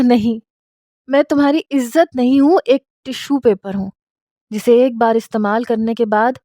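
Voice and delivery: a touch of tearful shouting, mostly in her own voice; understated sobbing protest; crying and shouting. Acted. Wife refusing her husband's so-called honour, mild tearful yell. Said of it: "روتے ہوئے چلا چلا کر کہہ رہی تھی".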